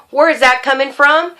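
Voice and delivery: imagined demand for an explanation; challenging question. Retold or imitated. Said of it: "I didn't try to ask him".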